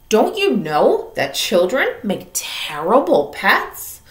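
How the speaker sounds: a hint of a stern mother's reproach; scolding mom. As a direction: mom lecturing her daughter.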